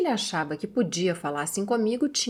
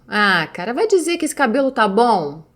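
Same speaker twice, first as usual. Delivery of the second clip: a louder, mock-rude dismissive jab; mock sneering boyfriend, a touch louder; rude different tone; 5 dB louder than usual. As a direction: imitate the boyfriend sneering at the old photo. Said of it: "num tom de voz completamente diferente".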